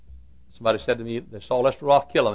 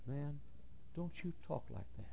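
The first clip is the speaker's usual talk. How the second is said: hushed rebuke; 4 semitones higher, 19 dB quieter than usual. Retold or imitated. Preacher rebuking a gossiping colleague, hushed. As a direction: warn him under your breath.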